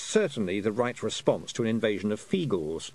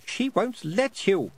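put-on slow, higher frightened boy; slow fearful warning; 9 semitones higher, slower than usual. A narrator's reading. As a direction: drag it out in dread. Roland fearful.

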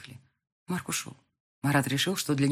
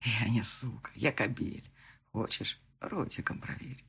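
low teasing; 5 semitones lower, 6 dB quieter, slower than usual. Acted.

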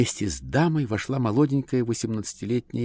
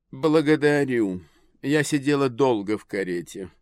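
society lady voice; 6 semitones higher, 4 dB louder than usual. A narrator's reading. Lady answers.

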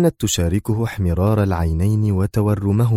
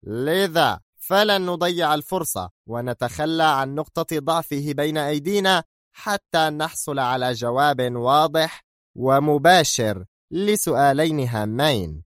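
very firm; 7 semitones higher than usual. A narrator's reading. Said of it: "وهو يضيف بحزم شديد".

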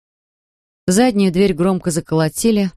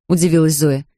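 plain reading voice

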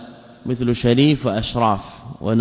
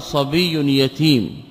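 slow example phrase; much slower than usual. Shown as a demonstration. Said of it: "يقال".

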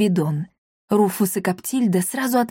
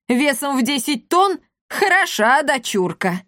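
mocking; 6 semitones higher than usual. A narrator's reading. Mocking the elder's daughter.

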